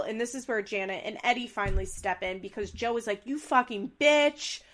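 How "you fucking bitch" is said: mock angry outburst. Joe yells at Kale.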